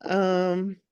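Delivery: blocked nose from a cold; congested voice. Real, not acted. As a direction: speak with a stuffy, congested nose. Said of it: "you sound very congested".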